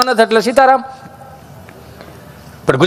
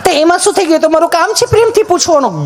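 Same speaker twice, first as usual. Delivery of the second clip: high nurse voice; 8 semitones higher than usual. Retold or imitated. Nurse voice higher.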